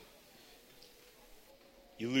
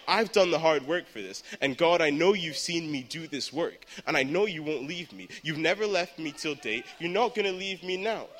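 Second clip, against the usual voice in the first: mildly raised, urgent self-encouragement; earnest prayer; 2 semitones higher than usual. Retold or imitated. Young speaker telling God of the hard work, earnest prayer. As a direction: plead with a touch more force. Praying aloud in retold crisis.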